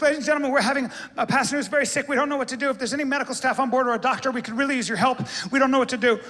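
urgent announcement. Retold or imitated. Flight attendant urgent announcement.

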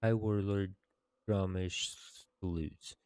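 formal, measured tribute to a hero; quest text reading. Acted. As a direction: read out the honors like a story narrator. Reads quest completion text aloud.

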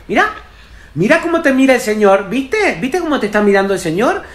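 loud, high, insistent scolding; scolding mother. Acted. Mother using a stranger to shame her kid, insistent scolding. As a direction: build to a high, held-up outcry. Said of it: "la madre mira a cualquier persona".

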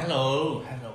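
lightly mimicked British "hello"; British English accent. Shown as a demonstration. Friend correcting her hello for the London interview, British accent. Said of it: "Inglês britânico".

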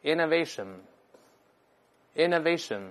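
innovation stressed on the third syllable, inno-VA-tion, said very slowly; stress moved back. Shown as a demonstration. Teacher shows the noun's shifted stress, slowly. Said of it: "这名词重音后移了".

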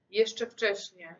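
slow, drawn-out plea. Acted. Girl begging her dead lover to stay, slow. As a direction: hold her lover back, slowly.

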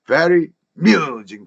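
"very amusing" as if the a were missing; linked sounds. Shown as a demonstration. Teacher shows what Korean ears hear, "very amusing" linked. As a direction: go straight from "very" into "-musing". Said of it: "바로 나오는 것처럼 들립니다".

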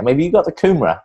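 put-on high-pitched English accent, polite shopper asking. Asking a supermarket worker for kumara, English accent. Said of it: "You know, my English accent".

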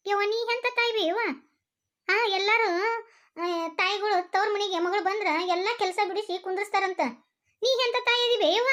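high-pitched, pained protest; hurt reproach. Acted. Daughter reproaching her mother for putting her to work, hurt.

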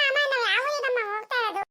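put-on high-pitched little kid voice; child's voice. Child asks mother which town they are going to, child's voice.

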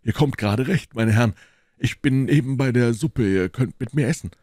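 animated, welcoming character voice; hearty host. Acted. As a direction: welcome friends to your table.

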